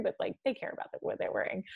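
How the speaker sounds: hushed, breathy aside about them caring; whispered gossip aside; mock whisper. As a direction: let the secret slip under your breath. Mocking LA people's hidden vanity.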